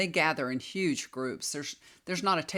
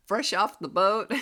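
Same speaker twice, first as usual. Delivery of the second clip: said through a laugh, a bit louder; 4 semitones higher, 5 dB louder than usual. Real, not acted. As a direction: chuckle at your younger self while talking. Laughing at her younger self.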